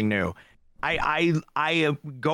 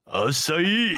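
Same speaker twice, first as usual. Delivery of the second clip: higher, drawn-out anime exclamation; 4 semitones higher than usual. Acted. Host showing friends how it sounds in anime, exaggerated voice. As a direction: cry it out like an anime character. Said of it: "like you're speaking like in an anime".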